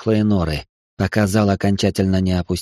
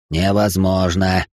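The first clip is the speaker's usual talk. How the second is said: deep bass demon voice; 2 semitones lower, slower than usual. Acted. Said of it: "пробасил властелин огня".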